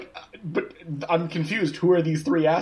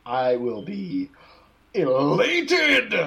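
excited; much slower than usual. Real, not acted. Gleeful answer to lawsuit news.

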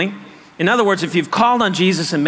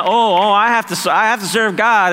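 grudging duty; 4 semitones higher, 4 dB louder than usual. Retold or imitated. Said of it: "no, this is, I get to serve".

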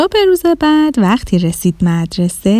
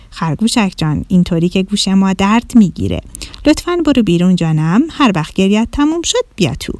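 lower, fast, fed-up teacher voice; exasperated teacher; 3 semitones lower, faster than usual. Acted. Owl teacher sending the wailing rabbit out, fast and fed up. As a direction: hurry the rabbit out, patience worn thin. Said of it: "حسابی کلافه شده بود".

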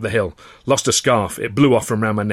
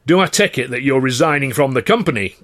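loud, higher, trembling fury; shout; 5 semitones higher, 7 dB louder than usual. Acted. Manager shouting at the resigning actor, furious. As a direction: bark the question. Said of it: "Carno shouted".

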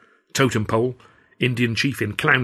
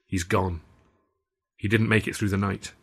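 bleakly. Acted. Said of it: "Alf said bleakly".

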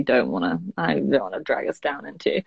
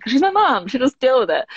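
high, breezy mock self-justification; imitating her own careless younger self, high and light; flippant entitled child; 8 semitones higher than usual. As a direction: toss it off like a spoiled kid who assumes mum copes. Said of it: "without being like".

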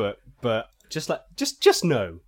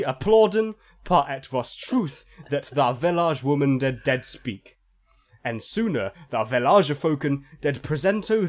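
solemn fake-archaic scripture reading; mock scripture reading; 2 semitones higher than usual. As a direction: read it like garbled holy scripture. Reads fake phonetic bible.

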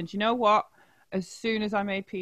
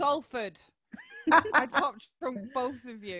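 higher, called out proudly; proud shout; 7 semitones higher than usual. Real, not acted. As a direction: call out your hometown over the others. Butting in with her hometown.

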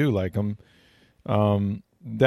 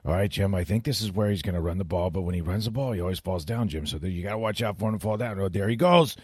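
imitating Tony Romo; 3 dB quieter than usual. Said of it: "he'd go".

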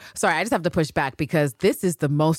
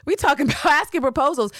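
much higher, laughing disbelief; stunned and amused; incredulous Anne Lister; 12 semitones higher, 4 dB louder than usual. Retold or imitated. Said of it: "she's like".

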